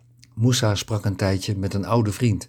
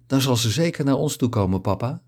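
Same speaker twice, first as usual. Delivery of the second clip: a touch higher, lightly joyful cry; mildly jubilant; 4 semitones higher than usual. Acted. Fatima interrupts her father, mildly jubilant. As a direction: cheer it out gently. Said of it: "Ze jubelde het uit".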